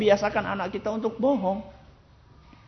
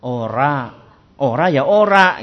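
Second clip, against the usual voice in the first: firm no; 4 semitones lower, 5 dB louder, slower than usual. Shown as a demonstration. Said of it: "Nggak usah bentak-bentak".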